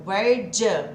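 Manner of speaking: "where j" with do you reduced to j; where plus j. Shown as a demonstration. Teacher showing how the question is linked. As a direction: blend where into a quick "j". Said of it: "aqui eu vou ter o j".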